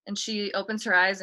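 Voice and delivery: ordinary talk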